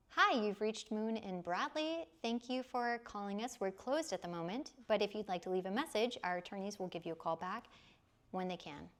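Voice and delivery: polished law-firm voicemail greeting; professional voice. Shown as a demonstration. Receptionist recording the law firm's voicemail, professional. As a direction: read it like the firm's answering machine. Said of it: "let me try and put my professional voice on".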